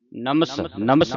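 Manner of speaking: "ਨਮਸ" ending in a clean hissed s; plain s sound. Shown as a demonstration. Teacher drilling the word, "ਨਮਸ" with clear final s. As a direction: say "ਨਮਸ" with s, never sh. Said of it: "ਸੱਸੇ ਦੀ ਆਵਾਜ਼ ਉਚਾਰਨ ਕਰਨੀ".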